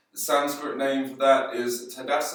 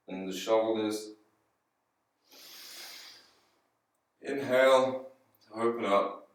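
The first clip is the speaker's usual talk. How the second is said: calm, spaced-out breath cues in a slightly lowered voice; guided breathing; 4 semitones lower than usual. Acted. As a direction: pace the class's breathing with long pauses.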